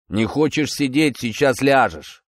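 unhurried, idle threat; lazy retort. Acted. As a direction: toss back a threat without effort. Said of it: "лениво огрызнулся старший".

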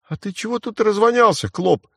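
высоко и громко, в ярости; взорвись злым криком мальчишки; разъярённо. Acted. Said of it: "Разъярился вдруг мальчишка". (мальчишка в ярости кричит на Марха)

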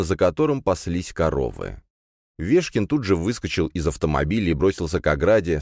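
normal talking voice

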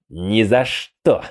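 slow, spiteful refusal. Acted. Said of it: "злобно сказал сундук".

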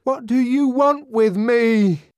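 high, loud, slow stressed demand; desperate question. A narrator's reading. Savage turning on the grinning faces, desperate demand. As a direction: demand an answer, stress want. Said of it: "he asked".

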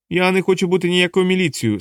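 lightly voiced stubborn dwarf; indignant dwarf. Dwarf refuses.

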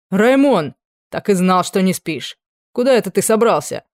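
barge in loudly with a challenge; captain barging into the duke's bedroom, loud and brash; loud bursting-in greeting. A narrator's reading.

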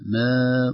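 "ما" as a drawn-out demonstration syllable; light versus heavy mim. Shown as a demonstration. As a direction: stretch the vowel of "ما" to show its colour. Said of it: "ما فرق بينهما".

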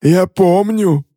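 high, slow mocking sneer; smirking. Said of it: "усмехнулся Иоанн Ри".

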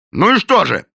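loud, high angry bark; the police captain barks at everyone present. A narrator's reading. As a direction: snap it at them. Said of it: "рявкнул Близ".

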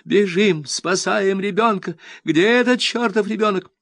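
high, loud panicked call; panicked shout. A narrator's reading. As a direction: rush them out in alarm. Panicked flight from bomb.

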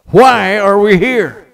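loud, slow, high-pitched shout; preacher's shout. Retold or imitated. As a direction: bellow it out for the whole hall. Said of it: "that's not strong enough".

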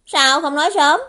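loud, high-pitched reproach; exasperated outburst. Acted. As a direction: cry out in embarrassed exasperation. Bị sửa hướng, lại trách. (gắt lên, cao giọng trách)

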